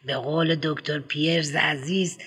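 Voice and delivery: eager headmistress rattling on; prim schoolmistress, brisk and eager; fussy headmistress. Acted. Headmistress lights a cigarette.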